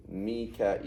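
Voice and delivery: "Mikael" said as mee-ka, open a; two-vowel version. Shown as a demonstration. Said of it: "there's three ways of saying it".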